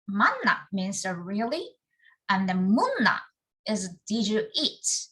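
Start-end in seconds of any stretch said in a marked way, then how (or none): 0.1-0.7 "Manna" with a Busan pitch peak, then falling; Busan intonation. Shown as a demonstration. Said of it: "first syllable in word is often given a higher". 2.5-3.2 "munna" with a Busan pitch peak, then a steep fall; Busan intonation. Shown as a demonstration. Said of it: "it's this intonation of".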